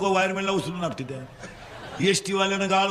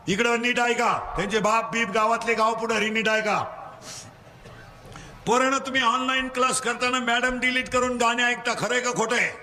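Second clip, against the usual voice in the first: higher, ringing call for everyone's answer; rallying call-out; 4 semitones higher than usual. Real, not acted. Drills children from the pulpit. (पोरांना हाक देत कीर्तनकाराचा चढा सूर)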